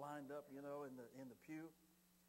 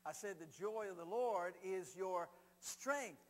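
louder, slow, hammered proclamation; emphatic repeat; 5 dB louder, slower than usual. Real, not acted. Preacher repeating the verse to rouse congregation, loud and emphatic. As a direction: drive each phrase home forcefully.

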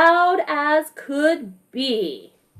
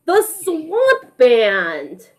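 slow proud announcement; much slower than usual. Acted. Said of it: "cried Doc".

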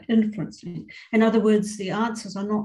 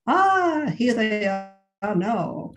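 excited cry; 2 semitones higher, 4 dB louder, much slower than usual. Acted. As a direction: cry out in delight, then stretch the words. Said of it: "cried the aunt".

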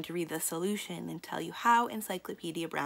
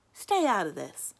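loud, raised warning; 3 semitones higher, 6 dB louder than usual. Acted. Slim warning Sally to stay out, loud. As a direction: warn her off with force. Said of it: "Slim warned Sally".

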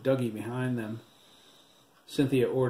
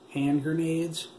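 raised, incredulous outburst; angry; 6 semitones higher, 4 dB louder, slower than usual. A narrator's reading. Cop fuming over the boys' weapons, raised angry disbelief. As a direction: spit it out in disbelief. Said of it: "Shooter angrily thought".

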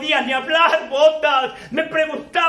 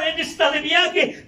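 breaking into sobs. Real, not acted. Breaks down recalling denial.

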